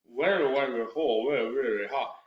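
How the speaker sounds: gabbled where where where, no syllables; rushed mumbled tongue twister. Shown as a demonstration. Teacher showing students the wrong, rushed way. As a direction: rush it sloppily. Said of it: "what you do not want to do".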